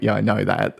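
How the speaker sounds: a bit defensive, brushing it off. Shown as a demonstration. Answering a complaint, slightly defensive. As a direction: say it as if you've heard enough. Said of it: "That sometimes sounds a little bit defensive".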